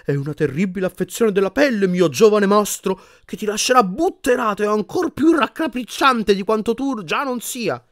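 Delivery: put-on high, theatrical old-time healer; pompous medieval wizard diagnosing. A narrator's reading. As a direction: declaim a dreadful diagnosis with relish. Voices medieval wizard in a portrait.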